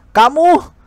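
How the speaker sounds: high indignant yelp; angry shout. Acted. Zhao Ye yelling at the teacher, outraged. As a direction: snap it out in outrage. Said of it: "Zhao Ye berteriak marah".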